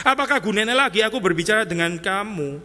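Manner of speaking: reading the verse as exasperated Jesus. Shown as a demonstration. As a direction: say "Apakah gunanya" like you've given up. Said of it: "saya kesulitan saya dengan terjemahan ini".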